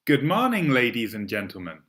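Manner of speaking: cabin crew announcement voice; bright, polished in-flight PA read; flight attendant. Shown as a demonstration. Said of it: "Please practice this cabin crew announcement".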